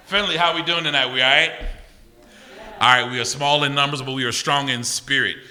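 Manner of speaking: rally the room; crowd hype. Real, not acted. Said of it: "hyping the crowd".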